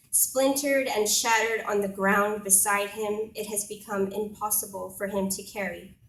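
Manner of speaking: measured, emphatic spoken-word delivery; poetry recital. Acted. Poet telling an audience of a passion play, reciting. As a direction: recite it line by line with weight.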